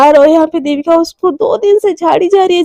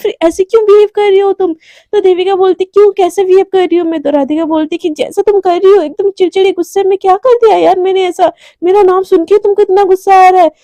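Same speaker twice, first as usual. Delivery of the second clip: heated confrontation; 4 semitones higher than usual. Acted. Radhika confronts Devika heatedly.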